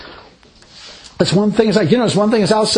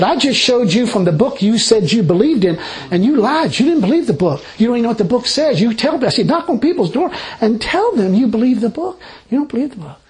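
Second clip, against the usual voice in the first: retold rebuke; 5 semitones higher than usual. Retold rebuke of two ladies.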